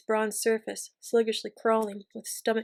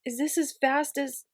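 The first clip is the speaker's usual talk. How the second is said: a touch of anxious worry, pitched up; anxiously; 4 semitones higher than usual. A narrator's reading. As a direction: ask it with rising unease. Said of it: "Sabriel said anxiously".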